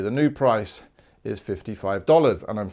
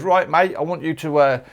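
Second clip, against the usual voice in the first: a loud, broad fake Aussie boss barking orders; exaggerated Australian boss voice giving a job; mock Australian accent; 4 semitones higher, 4 dB louder than usual. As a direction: ham up a bossy Australian shop manager. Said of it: "such a stupid accent? Australians don't sound like that".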